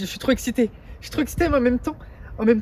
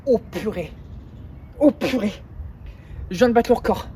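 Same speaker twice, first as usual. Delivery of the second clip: triumphant shout; real excitement. Real, not acted. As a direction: burst out with it, thrilled. Just broke the record.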